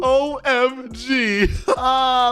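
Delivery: high, slow excited squeal with a laugh; excited shriek. Real, not acted. Gamer reacting as bully gets owned, shrieking excitedly. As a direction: squeal it out, half crying with joy. Rivals turned tables, boy shrieks.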